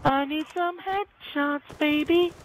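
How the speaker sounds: high, drawn-out playful call; sing-song it up high and slow; playful hype. Pretend.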